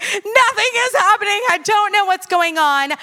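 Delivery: a touch of a frustrated whimper; mock frustrated cry. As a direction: voice cracking in retold despair. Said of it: "'cause I was like".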